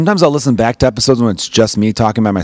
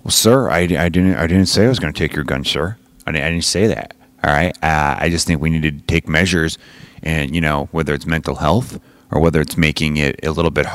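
low, soft-spoken debater; other person; 6 semitones lower, 3 dB quieter than usual. Acted. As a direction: calmly placate an opponent, voice down low. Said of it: "this other person's talking again".

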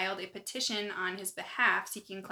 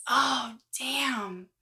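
real letdown surprise; 4 semitones higher, 6 dB louder than usual. Real, not acted. Surprise for co-host is spoiled.

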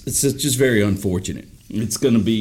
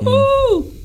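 very high, loud whooping shout; a rock-and-roll singer's whoop; 5 dB louder than usual. Retold or imitated. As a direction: whoop it like a rock star. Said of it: "He loved to shout and carry on".

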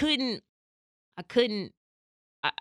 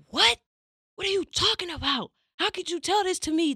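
high, stunned cry of disbelief; shocked disbelief; 10 semitones higher than usual. Retold or imitated. Girlfriend reacting to boyfriend's confession, high and stunned. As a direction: pitch shoots up in shock.

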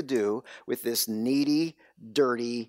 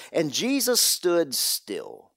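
1 slow emphasis; slower than usual. Real, not acted. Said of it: "the original Greek here, it says".

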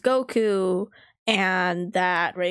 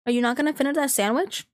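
higher, hopeful cadging questions; freeloader's asking; 5 semitones higher, faster than usual. Retold or imitated. Kid asking friends for leftovers, higher and casual. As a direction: ask lightly for a bite, pitched up. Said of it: "I would freeload off of".

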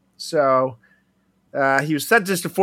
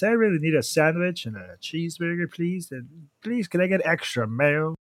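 imitating the guy; 5 semitones higher, 4 dB quieter than usual. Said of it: "Or he talks like this".

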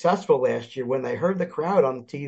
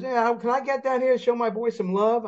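eager fan; 8 semitones higher than usual. Retold or imitated. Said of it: "He goes".

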